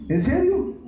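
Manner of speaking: playful mock disbelief; mock surprise. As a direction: jump high on a teasing question. Preacher mocks cooking brothers.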